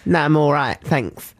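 lightly voiced misunderstood man; voicing James's reply.

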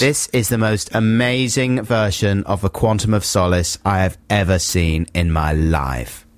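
understated talent-judge verdict, slowing at the end; Simon Cowell. Acted. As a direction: deliver a measured, emphatic judge's verdict. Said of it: "do your Simon Cowell impression".

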